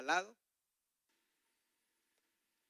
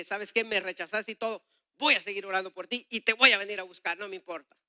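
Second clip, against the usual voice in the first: defiant resolve; 4 semitones higher, 6 dB louder than usual. Retold or imitated. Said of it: "Ese fue mi coraje".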